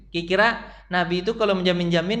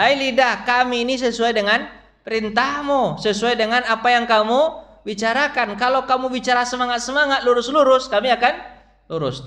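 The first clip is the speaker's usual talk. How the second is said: higher, louder solemn address to the tongue; body talking to the tongue; 8 semitones higher, 3 dB louder than usual. Acted. Preacher voices the body warning the tongue, high and loud. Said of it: "Seluruh badan berkata kepada lidah".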